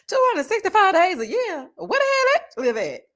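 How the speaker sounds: high, laughing mock outrage; laughing disbelief. Real, not acted. Laughing at a viewer's typo, high and incredulous. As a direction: crack up while rereading it.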